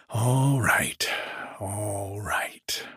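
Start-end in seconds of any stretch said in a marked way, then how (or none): 1.6-2.9 hushed whispered repeat. Acted. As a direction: drop to a whisper, half to himself. Landlord repeats himself, then whispers.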